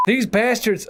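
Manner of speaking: lightly voiced Southern impersonation; Buck. Shown as a demonstration. Voice actor trying Buck's line, slightly overdone Southern impression. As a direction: attempt a bad Southern-tinged character voice. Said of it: "I apologize for this Buck impersonation in advance".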